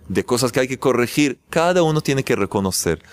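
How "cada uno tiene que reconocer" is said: ordinary talk, nothing marked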